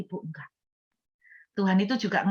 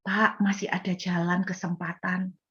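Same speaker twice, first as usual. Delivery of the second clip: gentle, wrapped in love. Retold or imitated. Preacher offers a sinner a way back, gentle and loving. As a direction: offer hope tenderly. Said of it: "dibalut dengan kasih".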